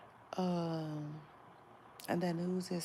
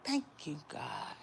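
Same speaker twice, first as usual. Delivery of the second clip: thankful quote. Retold or imitated. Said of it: "I said".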